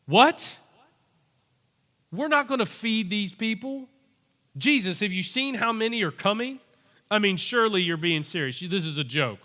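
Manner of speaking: incredulous, rising questions; can't believe what he's hearing; disbelieving Philip. Retold or imitated. Philip protesting to Jesus in disbelief.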